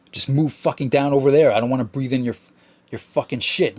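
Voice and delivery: retold swearing. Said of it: "I started swearing at him".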